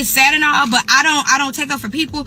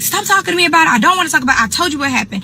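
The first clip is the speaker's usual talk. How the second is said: higher-pitched mock yell, easing down; retold scream; 5 semitones higher, much faster than usual. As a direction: imitate a friend yelling at her auntie. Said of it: "My friend is screaming at her auntie".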